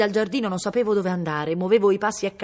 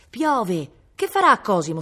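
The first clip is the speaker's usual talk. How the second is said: alarmed; 6 semitones higher, 7 dB louder than usual. A narrator's reading. Worried boy runs to his mother.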